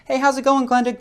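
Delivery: high, bright-pitched office greeting, loud; cheery greeting. Retold or imitated. Greeting the receptionist Glenda in a chipper high voice. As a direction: chirp a friendly hello to the receptionist. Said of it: "your conversation with the receptionist is".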